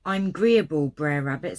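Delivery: loud dialect. Acted. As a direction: call out the agreement brightly in dialect. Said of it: "you get his accent".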